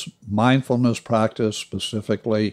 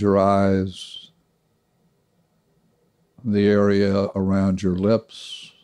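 calm guided meditation with long pauses; guided body scan. Shown as a demonstration. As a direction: lead them gently through relaxing, leaving long silences. Leads a short body scan meditation.

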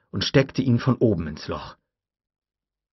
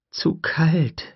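high whispered thought; hopeful whisper; 8 semitones higher than usual. A narrator's reading. Tim hoping the raptor stays out, whisper. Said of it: "dachte Tim".

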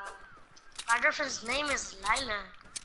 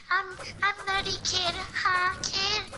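higher-pitched mock streamer hype; mocking streamer imitation; 6 semitones higher than usual. Friend teasing streamer over his self-talk, mocking imitation. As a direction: put on a higher streamer voice to tease him. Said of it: "they don't fucking say".

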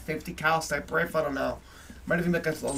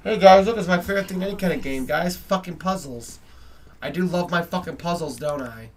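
mock-delighted, louder opening then dry; sarcastic; 5 dB louder than usual. Telling viewers he loves puzzles, heavy sarcasm. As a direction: fake enthusiasm about puzzles. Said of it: "I fucking resent and hate puzzles".

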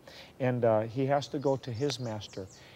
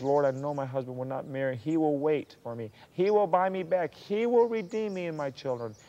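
fervent declaration of faith; 2 semitones higher than usual. Acted. Voices the captive woman's faith.

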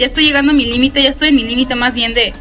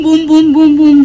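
heartbeat boom; 6 dB louder, slower than usual. Retold or imitated. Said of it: "mi Kokoro está boom".

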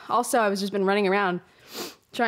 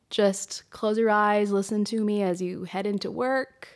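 soothing invitation. Acted. Soothing guided-listening opener.

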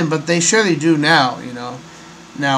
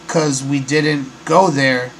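slow, deliberate word-by-word quote; halting quote; slower than usual. Retold or imitated. Host quoting the astronaut's odd answer, halting and slow. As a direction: imitate his slow, spaced-out answer. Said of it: "it's weird for him to say".

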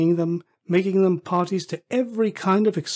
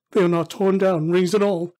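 raised, emphatic relief; excited cry; 3 semitones higher, 5 dB louder than usual. Acted. Scrooge finding everything still here, excitedly relieved. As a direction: exclaim it with growing certainty. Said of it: "cried Scrooge".

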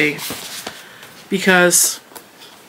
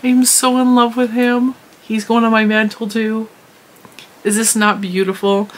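higher, delighted gush; 4 semitones higher than usual. Real, not acted. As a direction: squeal with delight over it. Gushing over a new collectible.

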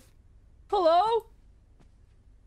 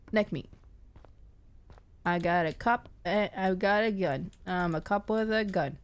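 mock tough bravado; 7 semitones lower than usual. Gamer bluffing toughness to calm fear in the dark house. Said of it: "I'm just looking for a key".

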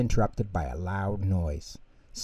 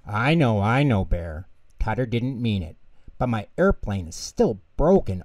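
complaining; 3 dB louder than usual. Acted. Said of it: "Ojo complained".

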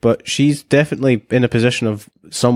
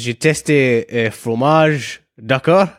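fake French accent; much slower than usual. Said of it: "all I need is".

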